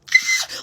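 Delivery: short gasp standing in for a scream; voiceless, breathy imitation scream; sharp gasp, acting out the screaming; mock scream. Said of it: "we start screaming".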